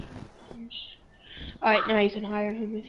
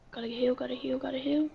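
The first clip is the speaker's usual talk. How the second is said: urgent whispered self-talk; 6 dB quieter than usual. Real, not acted. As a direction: whisper it to yourself, rushed. Healing under fire.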